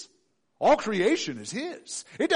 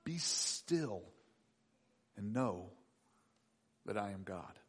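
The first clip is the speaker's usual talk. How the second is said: low, soft and hushed; soft low stillness, almost a hush; calm divine voice; 8 semitones lower, 10 dB quieter, slower than usual. Acted. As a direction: speak it like a quiet command to rest. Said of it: "God says".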